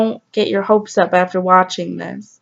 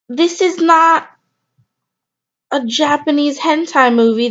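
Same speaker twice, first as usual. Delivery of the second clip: slow, disbelieving scolding, pitched higher; exasperated scolding; 4 semitones higher than usual. Acted. Scolding the man who flashed on the subway, slow and exasperated. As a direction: lecture him slowly in disbelief.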